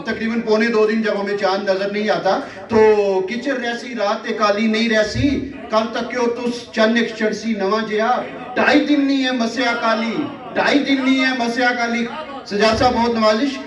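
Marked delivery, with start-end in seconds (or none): 2.6-12.0 measured mushaira recital, repeating lines for effect; poetry recitation. Acted. Poet reciting verse to a live audience, declaimed.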